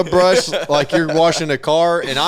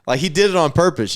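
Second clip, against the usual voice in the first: ordinary talk, nothing marked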